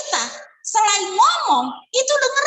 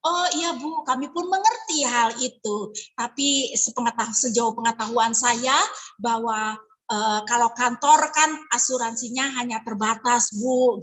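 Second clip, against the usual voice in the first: polite reply; 5 semitones lower than usual. Retold or imitated. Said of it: "kita bisa ngomong".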